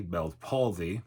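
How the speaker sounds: palsy said quickly, lips slack. Shown as a demonstration. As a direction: rattle off palsy fast. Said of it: "If I say it quickly".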